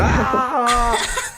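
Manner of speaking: a hammed-up yelp of pain; mock android scream. Retelling Bishop's death to friends, a mock high scream.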